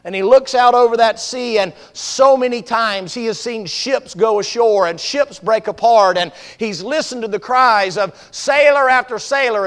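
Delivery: vivid, emphatic preacher's storytelling; dramatic sermon storytelling. Acted. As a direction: paint the storm for the congregation.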